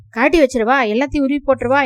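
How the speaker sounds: loud, high angry outburst; shouting wife. Acted. Wife yells at husband about her jewels, loud and angry. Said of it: "என்று இறைந்தாள்".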